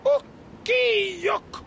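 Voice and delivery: Ukiok drawn out syllable by syllable; said slowly. Shown as a demonstration. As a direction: stretch out Ukiok slowly for the learner. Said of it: "Say it with me now, slowly".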